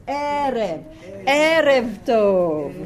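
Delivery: "Erev" with the E drawn out and stressed; slow "Erev Tov", weight on the first E; first-syllable stress. Shown as a demonstration. Teacher demonstrating the accent, "Erev" stressed on its first syllable. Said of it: "the accent is on the first syllable".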